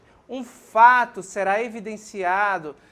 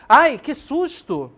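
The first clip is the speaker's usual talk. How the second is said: slow, high, loud startled cry of ai que susto; startled exclamation; 5 semitones higher, 8 dB louder, slower than usual. Shown as a demonstration. Teacher showing students exclamatory tone, startled cry. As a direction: gasp it out as if suddenly frightened. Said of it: "terá até uma entonação diferente".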